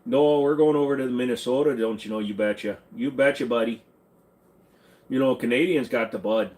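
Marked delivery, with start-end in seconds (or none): 0.0-3.8 put-on folksy Minnesota accent. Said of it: "I'm gonna just do this accent".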